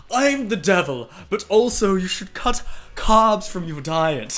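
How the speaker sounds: a hint of a posh cartoon baby; lightly mock his old devil-as-Stewie voice. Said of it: "I sound like Stewie".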